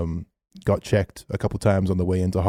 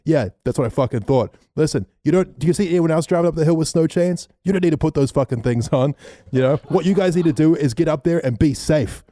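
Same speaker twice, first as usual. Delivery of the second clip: ranger's telling-off; 7 semitones higher than usual. Retold or imitated. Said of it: "He's like".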